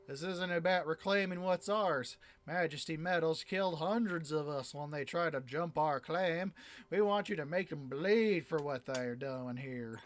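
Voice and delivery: lightly voiced, vengeful mining boss; a hint of an angry miners' chief; miners' leader. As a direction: demand payback for the dead.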